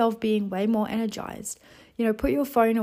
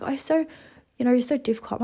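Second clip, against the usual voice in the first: lightly imitated mum, higher pitched; a hint of mum complaining, pitched up; mum's voice; 4 semitones higher, faster than usual. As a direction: put on mum's mild reproach. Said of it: "And then she's like".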